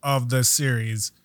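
low, mildly dejected quote; bummed retelling. Retold or imitated. Host quoting a driver on his premier class, bummed. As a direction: imitate a let-down driver, pitched low. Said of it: "he was, he was bummed".

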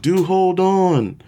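high, slow yell from the crowd; yelled request. Retold or imitated. Fan shouting a song request at the singer, yelled. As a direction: call it out to the stage. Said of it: "I kinda yelled out".

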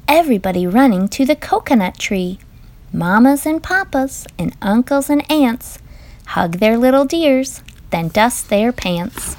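lively, sing-song picture-book reading; reading to children. Acted. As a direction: read it like a bedtime book for little ones. Parent reads picture book aloud.

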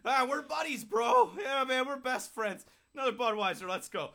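put-on broken English accent. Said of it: "broken English accent".

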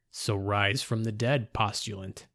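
slow ritual intonation; intoning. A narrator's reading. Robed figure summoning the risen narrator, slow intoning. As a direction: chant it like a rite. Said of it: "the voice intoned".

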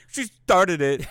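high, slow, drawn-out whine; mocking whiny voice. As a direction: mimic the whiny denial slowly. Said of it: "you sound like the guy on the fucking bunny slope".

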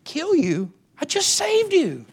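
high, loud, exasperated retort; indignant God. Acted. God answering the complaining Israelites, indignant and loud. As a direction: answer incredulously, stretching the last words into a shout.

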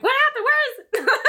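high, loud eager questions; high loud laughing excitement; excited. Retold or imitated. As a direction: demand it giddily.

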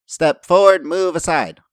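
high, loud order to stone guardians; calling a command. Acted. Lorilla commands the stone guardians to move, calling out high.

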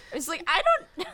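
laughing through the words; words breaking into laughter. Real, not acted. Laughing at absurd line.

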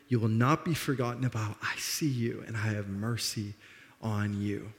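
soft, low, gentle reassurance; merciful. Acted. King David welcoming crippled Mephibosheth to his table, gently merciful. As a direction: speak tenderly, unhurried, as a gift of mercy. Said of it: "in this moment of mercy".

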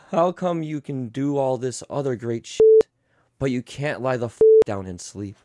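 lightly soothing storybook read; tender bedtime read with angry asides; bedtime story reading. Acted. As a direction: read it like a lullaby book. Reads bedtime story parody.

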